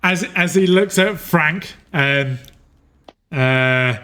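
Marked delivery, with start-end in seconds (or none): none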